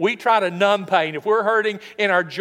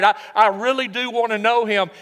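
louder, earnest longing; heartfelt desire; 3 semitones higher, 4 dB louder than usual. Acted. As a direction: press it out with great desire of the heart. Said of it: "expressing great desire of the heart".

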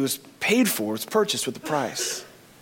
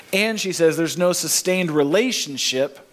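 ordinary delivery

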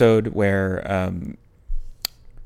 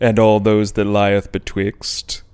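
jack o lantern voice; 3 semitones lower, slower than usual. Acted. Spooky Halloween show opener.

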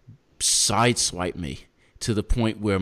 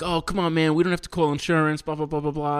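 higher-pitched mock plea; mock pleading; 8 semitones higher than usual. Imitating the driver begging him not to call insurance. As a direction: play the driver talking him out of it.

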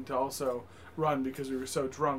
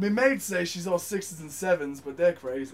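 mock British accent. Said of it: "you've got the best British accent".

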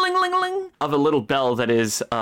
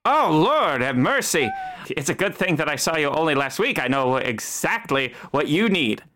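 fussy barber. Acted. Barber fussing.

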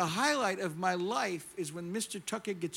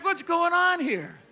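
loud, high, drawn-out exasperated question; mock alarm; 9 semitones higher, 9 dB louder, slower than usual. Preacher reacting to the congregation waving back, loud mock alarm. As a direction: cry out as if losing control of the room. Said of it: "I'm like".

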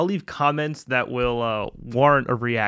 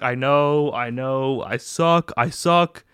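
louder, whiny admissions; mock self-pity; 6 dB louder, slower than usual. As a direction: whine it like a sorry beginner. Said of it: "and be like".

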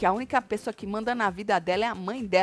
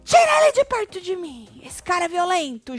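high, loud imitated scream; hammed-up shriek easing off at the end; retold scream; 9 semitones higher, 5 dB louder than usual. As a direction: cry out in mock alarm, pitched way up. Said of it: "aí ela grita assim".

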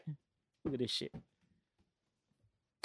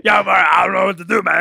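lightly imitated regular guy voice; normal boy voice. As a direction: do a casual dude voice. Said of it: "a normal boy voice".

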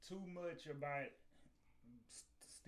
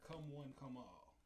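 town crier; 9 dB louder than usual. Pretend. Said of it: "mock town crier announcement".

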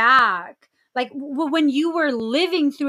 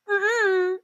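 high playful refusal; 8 semitones higher, slower than usual. Retold or imitated. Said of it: "I'm just like".

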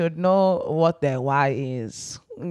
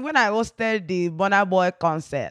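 attempted Nigerian accent. Shown as a demonstration. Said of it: "translate it to a Nigerian accent".

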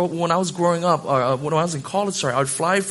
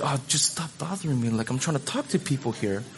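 retold brush-off; 6 dB quieter than usual. Brushing off his interrupting wife.

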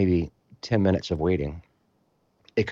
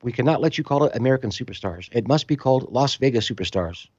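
Greek official; 6 semitones higher than usual. Retold or imitated. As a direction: announce it like a stern foreign official. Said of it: "they go".

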